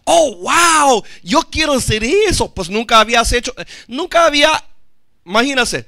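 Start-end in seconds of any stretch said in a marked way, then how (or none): 0.0-2.5 loud, high wowed exclamation; acted eager amazement. Sceva's sons watching Peter, loud hammed-up excitement. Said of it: "se animaron ellos y dijeron".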